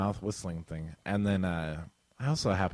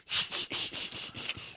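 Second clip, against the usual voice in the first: Ernie laugh; 8 dB quieter than usual. Retold or imitated. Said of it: "like, the Ernie laugh".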